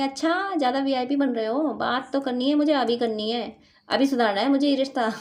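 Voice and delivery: half-playful telling-off, partner won't take no; playful mock reprimand; mock scolding tone. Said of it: "ऐसी tone मुझे pick हो रही है इनकी".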